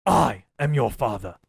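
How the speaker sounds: slow, drawn-out villain line; slow, heavy father reveal; Vader impression. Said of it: "sounded like Master Splinter screaming".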